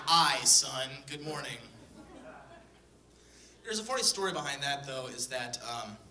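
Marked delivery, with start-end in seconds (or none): 0.1-1.6 lightly voiced pirate greeting; a hint of a gruff pirate dad; mild pirate brogue, loud on aye. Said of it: "talks and acts like a pirate".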